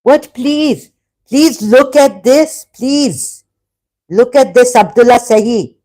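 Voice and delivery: high-pitched exasperated challenge. Real, not acted. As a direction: push back insistently, pitched well up. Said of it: "I start to get very passionate".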